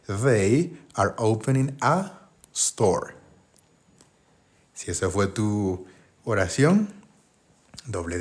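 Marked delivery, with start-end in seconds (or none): 0.1-3.1 slow, careful dictation pace; slow model sentence. Shown as a demonstration. Teacher modelling the sentence for Spanish learners, slowly. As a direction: lay out each word slowly for learners.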